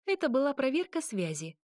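sly, needling tone; a touch of snark; snide reply. A narrator's reading. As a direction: tease him with it. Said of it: "ехидно ответила она".

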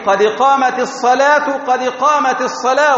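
قامت carried into الصلاة with a short i; correct iqama pronunciation. Shown as a demonstration. Teacher modelling correct speech, i after the t of قامت. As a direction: say "qad qamati s-salah", d bounced in قد. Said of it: "هذا هو النطق الصحيح".

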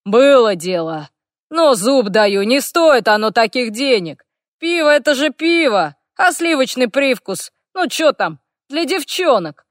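loud boast, rising into dismissive banter; brag, then wave it off loudly; proud orc. A narrator's reading. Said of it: "гордо заявил Харт". (хвастливый орк, громко)

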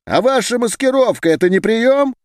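high-pitched heckling cry from the back; shouted from the hall. A narrator's reading. Heckler in the hall shouting at the speaker, high cry. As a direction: call it out over the room. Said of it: "закричал кто-то из зала".

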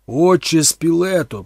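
loud, slow repeated call. A narrator's reading. Thorn calls the unresponsive priest again, loudly.

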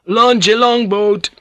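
high, slow shouted command; loud order. Acted. Priest shouting an order to the boatswain, loud. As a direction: bark it down the deck. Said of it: "shouted loudly to the boatswain".

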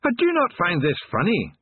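restrained shout in a high Scots voice; mild high-pitched shout; indignant shout. A narrator's reading. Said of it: "watched for a little while before shouting".

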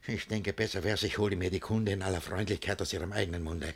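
soft, fast plotting; scheming aside. Acted. Master deciding to question Agnes gently, soft and quick. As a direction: murmur the plan quickly.

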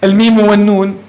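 الميم والنون as two full letter names; name each letter, الميم then والنون; spelt by letter names. Shown as a demonstration. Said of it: "لا نقول في مثلًا من". (نطق الميم والنون بأسماء الحروف)

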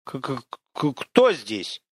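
stuttering k-k-k-who, scared; stammering in fear. Acted. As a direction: force the words through a frightened stammer. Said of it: "С трудом разжав губы".

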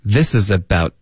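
ABOUT cut off cleanly, final t unreleased; clean stop. Shown as a demonstration. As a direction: link "this is about", then stop dead on the t. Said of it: "干脆的停顿". (this is about 连读，about 末尾干脆停顿)

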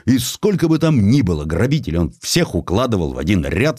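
ordinary delivery, nothing marked

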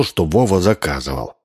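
usual speaking voice

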